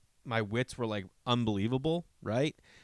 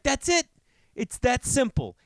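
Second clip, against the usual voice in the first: much higher, delighted disbelief; amazed; 11 semitones higher than usual. Retold or imitated. Dad marveling at how easy it was, high voice. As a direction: squeak it out in happy amazement. Retold own thought, very high.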